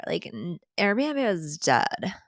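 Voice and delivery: slow, drawn-out cartoon girl voice; deadpan cartoon teen drag; lightly done Big Mouth character voice; Nick Kroll's Lola. Shown as a demonstration. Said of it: "Nick Kroll doing Lola on Big Mouth impersonation".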